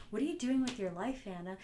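mildly scornful mock question; passive-aggressive tone. Speaker demonstrating her old passive-aggressive tone. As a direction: ask it with a passive-aggressive sneer. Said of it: "an aggressive, passive tone".

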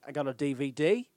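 imitated New Zealand accent on the letters. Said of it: "acted like New Zealand was so far behind".

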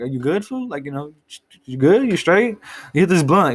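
casual mock check-in from a friend; a friend asks if you're good, lightly voiced; imitating a homie. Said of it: "some homie who's like".

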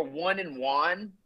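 "one and one" as won and wahn, slowly; two pronunciations contrasted. Shown as a demonstration. Guest comparing variants, slow contrast of "one" and "one". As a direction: say "one" two ways, drawn out to show the vowels. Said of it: "other words that are like that".

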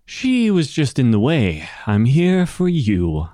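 slowing, drawn-out villain reply; assassin character voice. Acted. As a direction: answer as the assassin, stretching the last words. Game master answers as the assassin.

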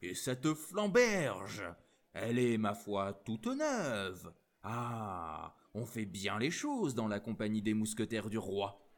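lightly voiced Gascon accent, admiring; French with a touch of Gascon. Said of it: "avec le plus pur accent gascon".

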